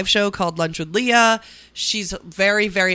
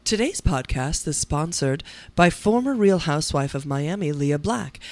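ad read; 2 semitones lower than usual. Acted. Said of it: "your voice sounds beautiful".

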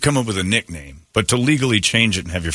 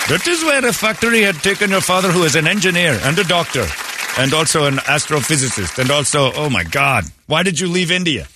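mock parent rant; 7 semitones higher than usual.

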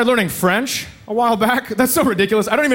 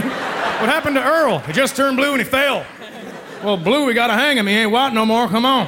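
hillbilly voices; 2 semitones higher than usual. Retold or imitated. Mock hillbilly dialogue.

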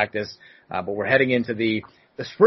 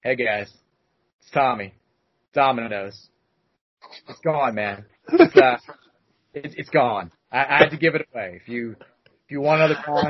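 mock heartbroken. Delivery guy sadly telling them the pizza is gone. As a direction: play it like a sad breakup call. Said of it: "acting like he had broken the heart of his best friend".

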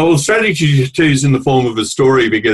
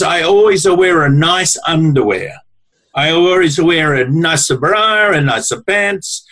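lightly voiced Italian grandmother; 3 semitones higher than usual. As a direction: play the little Italian wife letting you in on a secret, a light Italian lilt. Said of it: "little square Italian woman".

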